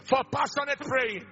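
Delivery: fervent prayer in short, sustained phrases; forceful prayer. Real, not acted. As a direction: lead the crowd in prayer, phrase by phrase. Leads congregation in prayer.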